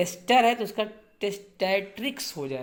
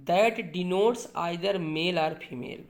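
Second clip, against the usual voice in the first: slow dictation; much slower than usual. Shown as a demonstration. Teacher reading the definition.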